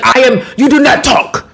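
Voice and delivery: mock stern reprimand. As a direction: order someone silent in a put-on voice. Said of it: "He raised his voice at me".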